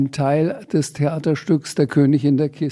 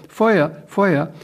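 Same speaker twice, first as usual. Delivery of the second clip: higher alarmed calls of fire; excited cry; 3 semitones higher than usual. Acted. Saleswomen shouting in alarm, excited cry. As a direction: panicky repeated cry. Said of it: "schrien aufgeregt".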